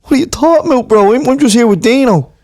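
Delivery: put-on lairy young lad in tracksuit; lad at a gaff. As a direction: call out to the boys, cocky. Same lad figure.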